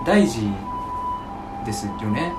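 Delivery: careful, halting Tokyo accent attempt; put-on standard Japanese. Shown as a demonstration. Kansai man trying out Tokyo speech, careful standard Japanese. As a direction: standard Japanese with pauses between chunks. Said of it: "やってみてや".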